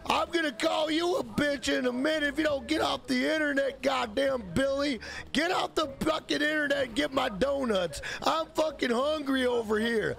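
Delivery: mock yelling mom. Mom shouting at Billy to log off, mock yell. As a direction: yell at the kid like a fed-up mother.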